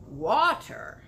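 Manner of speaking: a loud, puzzled cry of the word; cried out. Acted. BFG puzzled by Sophie's word, cries it out loud. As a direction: giant baffled by a strange word, calls it out. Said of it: "cried the B F G".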